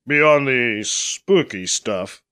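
slow, dry sarcasm; sarcastic. Acted. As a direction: drawl it out with sarcasm. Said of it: "somewhat sarcastically".

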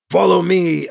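crisp, careful syllables; an old alien translator speaking stiffly; over-enunciated translator. A narrator's reading. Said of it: "the old speaker over-enunciated".

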